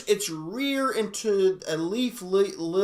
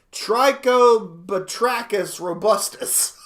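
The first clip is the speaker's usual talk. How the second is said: laughing; 4 dB louder, much slower than usual. Real, not acted. Struggling with the Latin name.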